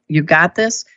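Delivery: composed and reassuring; calm voice. Retold or imitated. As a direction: say it steadily to settle an injured dog. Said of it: "I'm speaking in a calm voice".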